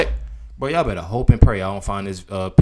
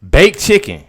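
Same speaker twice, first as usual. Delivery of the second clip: incredulous; 7 semitones higher, 6 dB louder than usual. Retold or imitated. Mocking the clip's menu.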